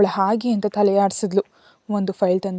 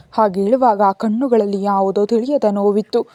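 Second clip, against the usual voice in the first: plain reading voice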